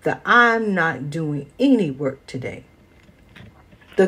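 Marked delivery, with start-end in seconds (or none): 0.0-2.6 snapping mule. Acted. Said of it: "snapped the mule".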